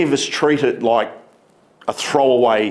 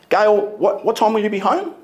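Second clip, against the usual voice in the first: higher, rising on home; first tone of the question; 6 semitones higher, faster than usual. Shown as a demonstration. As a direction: ask Gail lightly, tune rising on "home". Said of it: "same phrase with three different tones".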